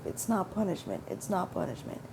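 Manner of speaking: calm yourself down under your breath; a quiet mantra to herself at the bus stop; repeating to myself. Retold or imitated. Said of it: "I just kept repeating that to myself".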